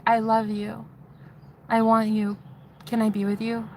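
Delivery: softly spaced declaration of love; tender retold plea; longing. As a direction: ask gently, in short yearning phrases. Retelling her longing words to him.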